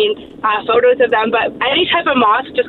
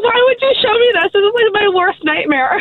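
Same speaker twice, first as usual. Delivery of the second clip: disgusted; 8 semitones higher than usual. Retold or imitated. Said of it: "I'm like".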